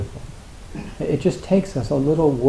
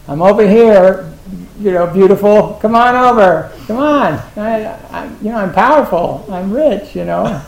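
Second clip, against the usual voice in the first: much higher, much louder strutting show-off; boastful bird; 7 semitones higher, 10 dB louder than usual. Pretend. Teacher voicing a bird courting a mate, loud boastful squawk. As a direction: crow like a bird flaunting itself.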